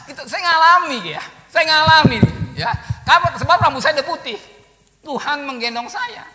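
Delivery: loud, high testimony; preaching at full force. Acted. Preacher loudly testifying to the congregation. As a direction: proclaim it from the pulpit.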